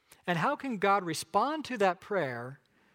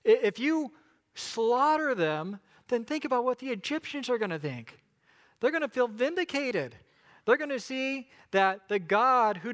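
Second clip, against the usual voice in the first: Moses pleading; 3 semitones higher than usual. Acted.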